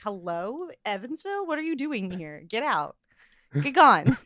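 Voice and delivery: light hometown Evansville twang; Evansville accent. Acted. Host scolding her own accent, Evansville twang. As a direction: let a little Evansville accent slip out. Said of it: "my accent's just naturally coming out more".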